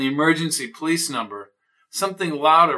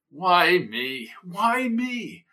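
whiny neighbor; 4 semitones higher, much slower than usual. Acted. Mrs O'Toole feigning innocence.

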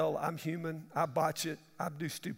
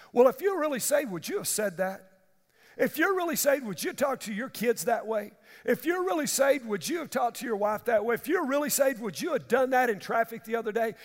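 higher needling questions; accusing voice; 4 semitones higher, 4 dB louder than usual. Retold or imitated. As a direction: needle them with doubt.

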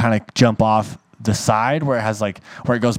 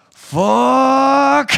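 high sharp yelled curse after the crash; retold curse; 12 semitones higher, 3 dB louder than usual. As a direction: blurt it high like you just hit the ground.

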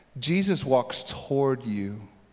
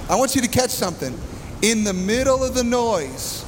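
higher-pitched, insistent call over noise; raised preaching voice; 5 semitones higher than usual. Real, not acted. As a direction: press the point over the storm. Preaching over loud storm noise.

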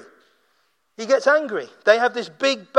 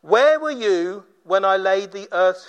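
God's commanding challenge. Acted. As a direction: start measured, then lift into a challenge. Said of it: "Then he says to him".

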